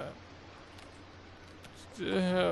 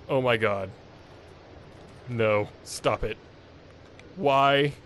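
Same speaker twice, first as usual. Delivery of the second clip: raging gamer; 2 semitones lower, slower than usual. Real, not acted. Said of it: "I'm going to throw my controller".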